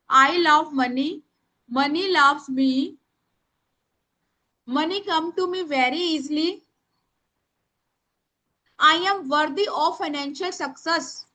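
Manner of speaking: very slow, word by word dictation; slow dictation to the class; speaking slowly. Shown as a demonstration. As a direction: stretch every word so they can write. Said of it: "मैं धीरे बोल रही हूँ".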